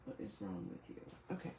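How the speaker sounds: normal talking voice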